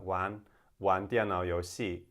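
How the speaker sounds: "玩" with no r, southern style; southern Chinese accent, plain n ending on "玩"; southern China accent. Shown as a demonstration. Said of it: "in southern China it'd be more like".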